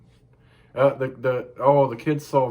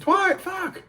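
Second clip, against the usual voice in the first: high, loud squeal of disbelief breaking into a laugh; real laughing shock at the news; 4 dB louder than usual. Real, not acted. Shocked at the repeated prank.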